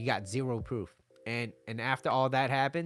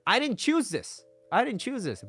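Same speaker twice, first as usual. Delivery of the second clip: higher pitched lament; mock dramatic; 11 semitones higher, 4 dB louder than usual. Man mock-lamenting being left, dramatic. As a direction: wail it theatrically. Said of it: "repeated line".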